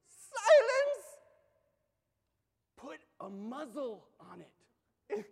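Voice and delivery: a sudden high, loud command, then slow and firm; commanding rebuke. Retold or imitated. Jesus rebukes the sea god with a loud commanding shout. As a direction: bark down the sea like a master.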